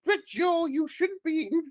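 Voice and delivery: high, mock-concerned falsetto with slipping accent; Gillian McKeith. TV nutritionist reproaching Joe, high wobbly-accented falsetto. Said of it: "the accent's gone a bit".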